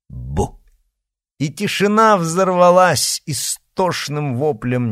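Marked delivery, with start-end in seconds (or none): 0.1-0.6 low monster boo. A narrator's reading. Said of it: "монстр произнёс".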